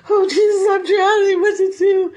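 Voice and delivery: a hammed-up drowning plea; mock panic. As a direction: cry out like a man sinking. Peter panicking on the water.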